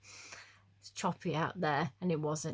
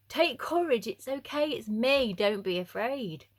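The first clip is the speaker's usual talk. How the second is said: a hint of Jesus calming them; lightly voiced Jesus, higher; gentle Jesus; 4 semitones higher, 3 dB louder than usual. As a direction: reassure the frightened disciples. Jesus voiced reading the passage.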